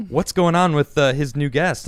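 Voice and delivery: imitating a curious chat with a gasp; lightly acted gossipy viewers; mock excited chat. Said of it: "chat kinda going a little, uh, little haywire".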